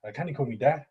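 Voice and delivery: amateur Scottish impression; Scottish accent. Shown as a demonstration. Showing a friend his best Scottish accent. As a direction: have a go at sounding Scottish. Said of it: "do your best impression of the Scottish accent".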